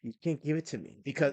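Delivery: hushed, emphatic whisper yell; stage whisper. Real, not acted. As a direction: keep it hushed but forceful. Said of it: "We have to whisper yell now".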